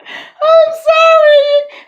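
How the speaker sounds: sorry stretched out, still laughing; slow apology through giggles; giggly apology. Real, not acted.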